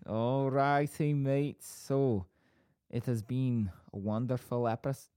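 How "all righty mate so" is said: Bolton attempt drifting into Scottish, Welsh and Irish; higher, muddled Bolton accent; botched Bolton accent. Shown as a demonstration. Host attempting the farewell, botched Bolton accent. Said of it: "Scottish and Welsh and Irish all".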